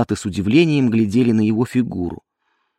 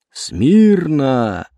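crisp parade-ground shout, a little louder; shouted command; 3 semitones higher, 4 dB louder than usual. Acted. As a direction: bark it to the ranks. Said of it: "прокричал фельдфебель".

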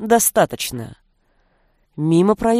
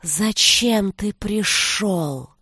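slow hypnotic serpent hiss; much slower than usual. Acted. The forest's snake voice.

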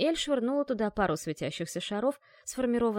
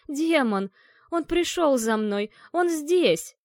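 high, loud terrified shouting; panicked cry; 6 semitones higher, 8 dB louder, much slower than usual. A narrator's reading. Dead woman screaming that the demon came for her, panicked shouts. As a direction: scream it out in blind terror.

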